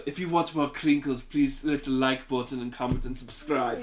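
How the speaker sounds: put-on German accent. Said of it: "I don't know why I'm German now".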